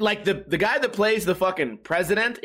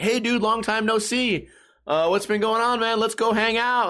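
higher-pitched, over-eager buddy greeting; fake friendliness; 6 semitones higher than usual. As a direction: lay on the long-lost pal act. Fake friends phoning a lottery winner.

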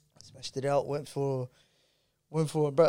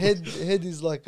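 laughing; slower than usual. Real, not acted. Explaining slang, cracking up.

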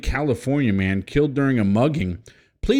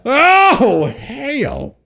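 surprised; 6 dB louder than usual. Real, not acted. Reacting to Texas Chainsaw memory.

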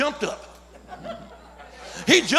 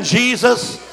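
loud; 5 dB louder than usual. Real, not acted. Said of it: "say that name again".

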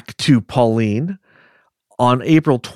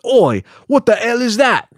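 hammed-up Welsh accent, much higher pitched; mock Welsh accent; 13 semitones higher, 3 dB louder than usual. Host voicing startled Billy at the window in a mock Welsh accent. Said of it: "is that a good Wales accent".

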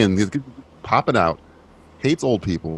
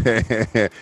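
sinister chuckle; 4 dB louder than usual. Retold or imitated. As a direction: laugh like you've got the upper hand. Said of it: "and Lance goes".

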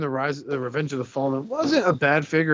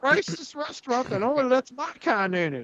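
hammed-up old Southerner; Southern bigot voice; 9 semitones higher than usual.

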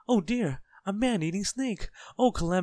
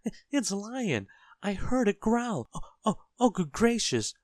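high, loud, escalating panic; hysterical shriek; 12 semitones higher, 7 dB louder than usual. A narrator's reading. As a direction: pile up horrors in a wailing high voice. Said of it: "shrieked Mister Jelly".

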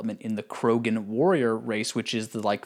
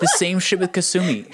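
repeated through a laugh, higher and louder; 7 semitones higher, 4 dB louder than usual. Real, not acted. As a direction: laugh while you complain about it.

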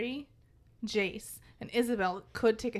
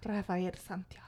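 soft, low seductive name; sexy voice; 3 semitones lower, 5 dB quieter than usual. Acted. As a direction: breathe the name like a flirt. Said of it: "Do a sexy voice".

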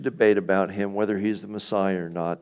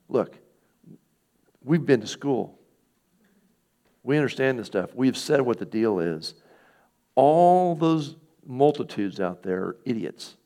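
mock-arrogant Pharisees, pitched a bit up; 3 semitones higher, 3 dB louder than usual. Pharisees dismissing the multitudes, mock arrogance. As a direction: play educated elites looking down, stretching the dismissal. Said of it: "There's some incredible arrogance going on".

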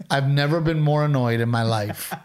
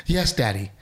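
lightly voiced fawning daughter, a touch higher; mock eager daughter; 4 semitones higher, faster than usual. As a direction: mimic the wife jumping to answer her dad. Husband mocks wife answering dad.

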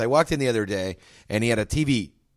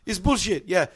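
gas station owner; 6 semitones higher than usual. Retold or imitated. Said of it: "he's pointing at the news".

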